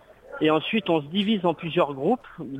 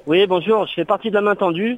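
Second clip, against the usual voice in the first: radio show caller; 5 semitones higher, 4 dB louder than usual. Real, not acted. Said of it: "On a un auditeur à la, à l'antenne".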